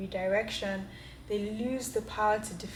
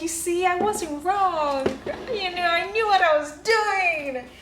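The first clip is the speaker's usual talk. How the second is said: triumphant; 9 semitones higher, 7 dB louder than usual. Retold or imitated. Gloating to herself after the shelf worked, triumphant. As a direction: rub it in, I told you so. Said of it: "And I am just like".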